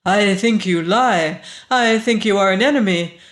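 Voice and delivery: loud, ringing, commanding woman. A narrator's reading. Woman accuses stranger and demands Sanfel, ringing and insistent. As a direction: let the accusation and plea ring out with urgency. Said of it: "The voice rang like a bell".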